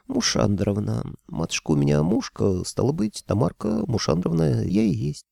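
a hint of a low, pleasant young woman's voice. Young kikimora correcting the tsar, in a low pleasant voice. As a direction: correct him gently in a low voice. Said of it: "Низким, но приятным голосом поправила".

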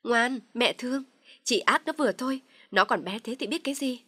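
high, loud scolding yell. Acted. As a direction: shout so the mother-in-law hears. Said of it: "Dung lại càng la dữ hơn".

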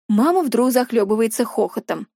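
ordinary delivery, nothing marked

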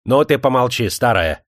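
mildly snapped rebuke; scolding shout. A narrator's reading. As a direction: hush the old woman sharply. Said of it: "прикрикнул на неё Данила".

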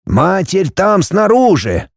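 a hint of a mystic old man explaining; old Kofler's voice. Kofler points at light.

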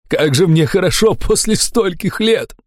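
high, slow rapturous cry; blissful elation. A narrator's reading. Fat man feels good after many years, elated. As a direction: stretch the words out in relief.

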